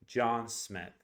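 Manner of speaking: "John Smith" with both vowels long and full; huge vowels. Shown as a demonstration. Teacher showing how a name matters, big stressed vowels in "John Smith". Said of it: "Those two vowels are huge".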